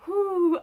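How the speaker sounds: high, loud puff of breath; exaggerated high whoo; retold panicky whew. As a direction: blow out nerves with a big whoo. Retold steadying herself while panicking.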